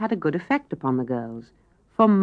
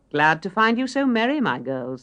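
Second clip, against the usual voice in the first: cheery mother; 4 semitones higher than usual. Acted. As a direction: greet her girls like a glad mother coming home. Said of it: "said a cheery voice".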